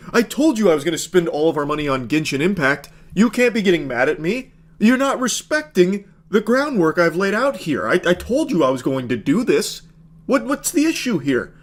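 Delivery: a hint of a petulant man-child; mock whiny boyfriend. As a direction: parody the entitled gamer boyfriend. Host mocks boyfriend's self-justification.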